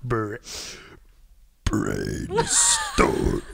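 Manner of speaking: word said through a burp; burp talking. Shown as a demonstration. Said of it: "because I'm like".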